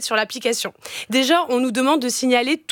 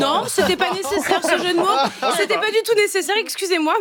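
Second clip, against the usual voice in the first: giggling through the words, voice pitched higher; laughing; 7 semitones higher than usual. Real, not acted. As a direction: laugh it off, embarrassed at her own pun. Embarrassed after her own pun.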